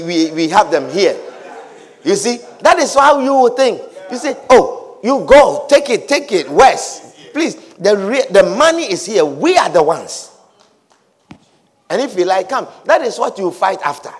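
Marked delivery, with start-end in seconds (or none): 4.5-10.3 low, unconcerned brush-off; dismissive. Retold or imitated. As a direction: let him take it, deep and unbothered. Imagined brother dismissing mere words.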